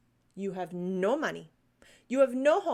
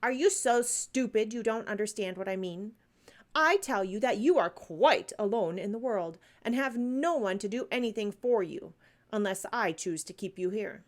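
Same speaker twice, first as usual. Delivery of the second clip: louder, sharp scolding headmistress; 4 dB louder than usual. Acted. Miss Minchin scolding the staring orphan, sharp and louder. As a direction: snap at the silent child. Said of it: "demanded Miss Minchin sharply".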